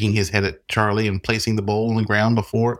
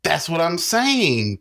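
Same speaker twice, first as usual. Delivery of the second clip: 1 reiterated; 8 semitones higher, much slower than usual. A narrator's reading. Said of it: "Grant reiterated".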